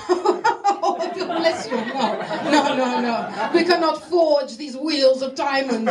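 slow, mock-grave colleagues; lightly hammed-up solemn refusal; mock solemn staff. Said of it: "They're like".

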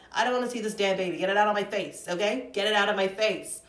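loud brash New York rant; New Yorker. Real, not acted. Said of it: "I just sound like a full-on New Yorker there".

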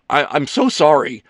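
flustered apology. Acted. Ethan apologising to Leo after his blunder, flustered. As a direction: blurt it out, mortified.

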